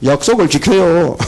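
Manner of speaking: smug, laughing son's reply; cocky kid keeping a promise; arrogant voice. Retold or imitated. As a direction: say it with a haughty laugh. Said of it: "거만한 목소리로".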